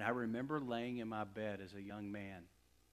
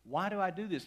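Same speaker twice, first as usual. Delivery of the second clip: retold crying out; 5 semitones higher, 6 dB louder than usual. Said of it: "crying out to God".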